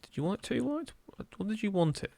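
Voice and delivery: bad northern English accent. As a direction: exclaim it in a hammy northern accent. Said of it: "exclaimed in a northern accent terribly".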